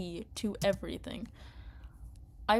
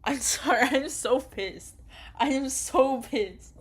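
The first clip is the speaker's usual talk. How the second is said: real rage; 5 semitones higher, 6 dB louder than usual. Real, not acted. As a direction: vent pure fury. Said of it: "I'm raging so much".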